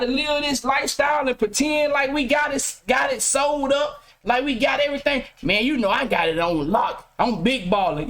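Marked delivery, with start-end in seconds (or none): 5.4-8.1 mock big baller. Mocking fake big baller.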